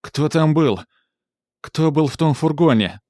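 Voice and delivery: high, loud questioning; mother shouting at the manager; desperate demand. A narrator's reading. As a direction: demand the answer at full voice. Klara demands answers, desperate.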